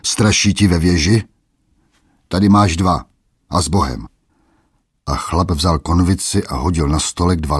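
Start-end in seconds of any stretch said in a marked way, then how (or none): 0.0-4.1 sneering taunt. Acted. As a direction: jeer at the old man. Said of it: "líkavě se smál".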